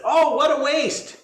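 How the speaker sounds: high, loud dismayed cry; monks crestfallen. Acted. Monks mourning the lost noodles, high dismayed cry. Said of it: "They said".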